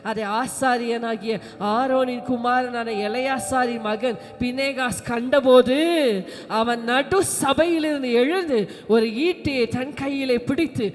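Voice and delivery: measured, dramatic scripture reading. Acted. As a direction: declaim the Bible account with emphasis.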